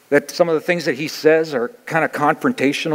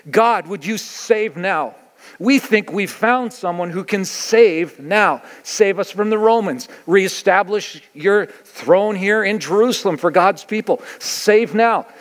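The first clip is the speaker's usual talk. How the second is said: pleading crowd prayer; 4 semitones higher, slower than usual. Retold or imitated. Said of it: "a declaration to heaven".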